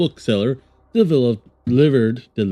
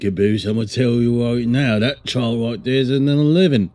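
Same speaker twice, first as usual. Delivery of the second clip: lightly put-on Australian Cockney accent; Australian Cockney mix. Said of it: "sounds like I'm trying to be Australian and Cockney".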